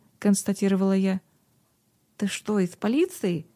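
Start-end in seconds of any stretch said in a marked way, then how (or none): 2.2-3.5 frightened. A narrator's reading. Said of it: "испуганно спросила девочка".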